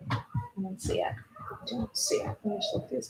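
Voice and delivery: muttered whisper while searching; hushed aside while looking for something; whispered to herself. Real, not acted. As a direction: whisper it to yourself.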